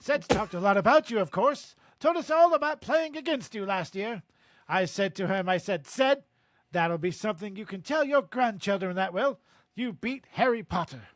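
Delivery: put-on hearty British-accented proud dad; boastful English father. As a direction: brag about your son, British accent. Reads Amos's dialogue in character.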